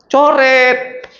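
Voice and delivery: high, firm repeat of the word Coret; loud answer. Shown as a demonstration. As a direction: call out Coret clearly and high. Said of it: "Langsung apa?".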